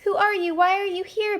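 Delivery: Big Pug confronting the monster, demanding. Acted. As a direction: demand answers from the stranger. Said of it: "Big Pug demanded".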